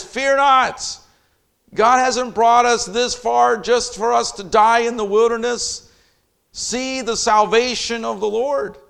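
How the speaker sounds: loud, high, fervent proclamation; passionate Moses. Retold or imitated. Moses turns to the frightened people, loud and passionate. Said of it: "And he turns and he says".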